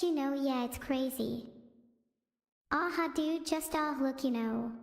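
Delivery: lightly voiced rambling streamer, lots of dude; halting, vague bro talk with filler words; impression of XQC. Streamer does a requested impression of XQC, rambling. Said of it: "do an impression of X Q C".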